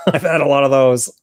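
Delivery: real laugh breaking into the words; laughing while talking. Real, not acted. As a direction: laugh through the line, amused at yourself. Laughs at own joke.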